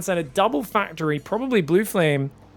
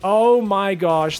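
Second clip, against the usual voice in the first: surprised; 7 dB louder, much slower than usual. Real, not acted. Reacting to the voice pack.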